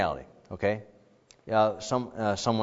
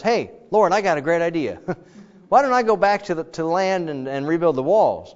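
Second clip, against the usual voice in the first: eager pitch; 4 semitones higher, 4 dB louder than usual. Retold or imitated. Nehemiah pitches his idea to God.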